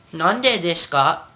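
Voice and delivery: slow "desu ka" as des-ka; dropped u. Shown as a demonstration. Teacher drills how it sounds, des-ka. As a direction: say "Nande desu ka" without the u in desu. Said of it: "that's how it sounds".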